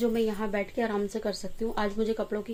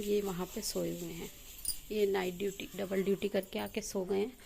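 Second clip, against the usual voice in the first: hushed speech; 9 dB quieter than usual. Real, not acted. Vlogger talking softly while her husband sleeps after night duty, hushed. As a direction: keep it down, someone's sleeping nearby. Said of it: "मैं धीरे धीरे इसलिए बोल रही हूँ".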